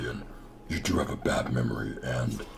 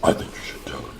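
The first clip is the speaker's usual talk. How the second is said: whisper. Acted. Aside urging a friend to explain.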